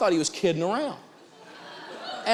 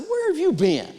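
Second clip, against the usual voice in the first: incredulous; 13 semitones higher, 4 dB louder than usual. Retold or imitated. Retold incredulous retort.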